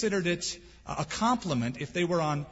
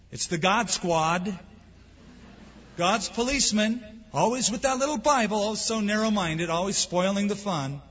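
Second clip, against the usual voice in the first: higher and louder, jeering at Christians; mocking sneer; 4 semitones higher, 3 dB louder than usual. The world scoffs at Christians, in a mocking, jeering voice. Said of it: "The world sees us".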